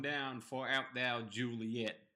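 slow redneck drawl; redneck Romeo. Retold or imitated. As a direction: lovesick hillbilly hamming up old-time verse. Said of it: "a redneck, like".

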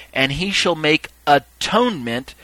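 "atonement" set apart and stressed; emphasis on atonement. Shown as a demonstration. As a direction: lean deliberately on the word "atonement". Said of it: "emphasize the part I want you to see".

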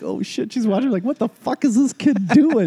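high, hushed mock panic; high-pitched imitation of a baffled onlooker; retold embarrassed alarm. Neighbour watching him punch a headband ball, mock bafflement.

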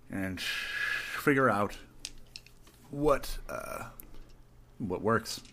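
talking through a yawn. Real, not acted. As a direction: stretch the words mid-yawn. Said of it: "I'm sorry, I'm yawning".

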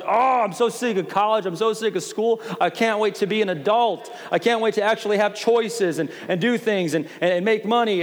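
exasperated younger self. Retold or imitated. Pastor mimicking his college self sick of school, exasperated. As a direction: act out an impatient college student.

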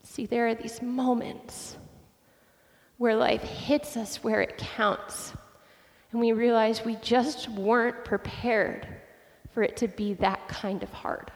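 soft, slow and grave; real hushed sorrow, unhurried; solemn reflection. Real, not acted. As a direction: let it sink in quietly, with long pauses. Solemn reflection after father's death.

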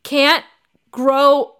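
loud, halting words with long gaps; mock incredulous. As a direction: sputter each word apart in stunned disbelief. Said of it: "And then she goes".

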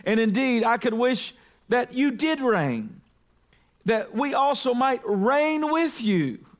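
high, slow mocking exclamations; sarcastic preacher reading Paul, high and slow. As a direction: drip sarcasm, mock their pride. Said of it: "he's speaking sarcastically here".

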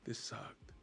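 very soft, deflated murmur; barely voiced, let-down aside; dejected grumble. Retelling the sister's letdown after the show, dejected and hushed.

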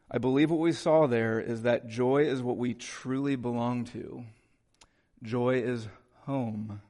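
measured reading with long pauses; solemn literary reading. Acted. Preacher reading Buechner's passage to the congregation, solemn literary reading. Reads a book passage aloud.

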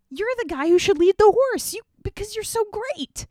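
high, loud, put-on regal voice; a grand king booming praise; royal command. The king orders Haman to lead the horse, high and loud.

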